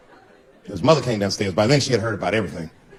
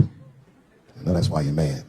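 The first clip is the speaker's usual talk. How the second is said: soft, slow apology; 9 semitones lower, 4 dB quieter, much slower than usual. Retold or imitated. Tender talk with wife.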